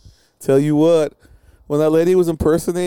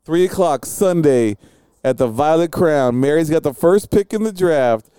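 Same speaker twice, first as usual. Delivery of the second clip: draft announcer; 3 semitones higher than usual. Pretend.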